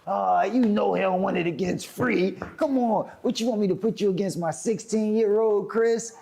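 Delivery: dismissive scorn. Retold or imitated. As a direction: imitate someone sizing up and dismissing a rival. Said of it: "He start talking like that".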